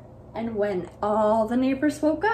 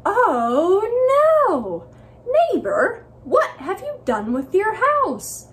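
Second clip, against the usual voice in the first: louder, higher anguished cry; dismayed wail; 9 semitones higher, 6 dB louder than usual. Acted. Neighbors see the ship house, wailing in shock. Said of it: "they said".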